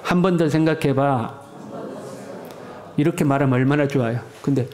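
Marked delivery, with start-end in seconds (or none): 0.0-1.4 gentle advice. Shown as a demonstration. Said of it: "우리 같이 해봅시다".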